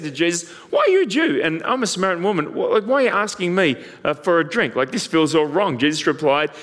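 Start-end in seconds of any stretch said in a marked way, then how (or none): 0.7-5.8 high, startled disbelief at the start; a Samaritan woman taken aback by the Jew's request; surprised woman. Retold or imitated. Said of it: "The woman was surprised".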